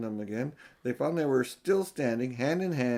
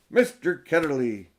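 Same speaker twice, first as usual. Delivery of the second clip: louder sudden call of a name; girl remembering all at once, shouting; 3 semitones higher, 7 dB louder than usual. Acted. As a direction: blurt the name out as it comes back. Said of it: "she shouted out".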